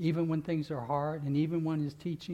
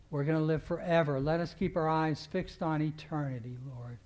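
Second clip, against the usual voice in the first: earnest pastoral prayer voice. Acted. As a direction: pray over the church, rising then settling. Closing prayer over congregation.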